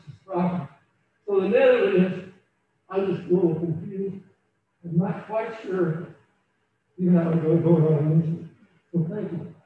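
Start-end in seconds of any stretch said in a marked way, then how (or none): 2.9-9.5 losing voice. Real, not acted. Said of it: "I'm losing my voice".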